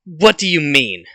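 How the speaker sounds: loud, irritated demand; fuming. Acted. Kendo questioning the opponent mid-fight, fuming. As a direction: demand it, still pissed off. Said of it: "fuming and basically still pissed".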